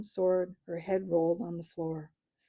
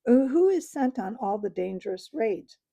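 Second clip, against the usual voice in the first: louder and higher, building toward a yell; rising to a scream; 3 semitones higher, 5 dB louder than usual. Acted. Dwarf rants at the council, building to a loud yell. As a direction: build from angry to shouting. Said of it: "whose voice had now risen to a scream".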